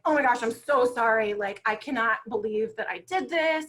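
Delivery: freaking out. Retold or imitated. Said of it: "And I'm freaking out".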